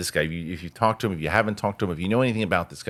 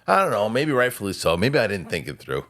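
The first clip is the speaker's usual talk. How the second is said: mimicking him in a raised, whiny pitch; pitched-up sheepish impression; high mock whine; 5 semitones higher than usual. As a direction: play him small and high-voiced, sheepish. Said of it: "And he's like".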